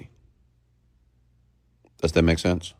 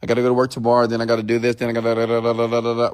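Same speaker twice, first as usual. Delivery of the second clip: mock rambling; 3 semitones higher, much faster than usual. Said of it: "Many of you say".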